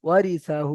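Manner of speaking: ওয়ারি সা short, হু held long; brief syllables, then draw out হু; model pronunciation. Shown as a demonstration. Teacher modelling the whole word, stretched final হু. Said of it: "এমনভাবে উচ্চারণ হবে".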